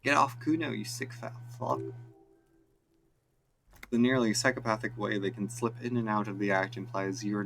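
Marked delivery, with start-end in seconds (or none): 0.0-1.8 yelling through laughter. Acted. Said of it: "uncontainable laughter".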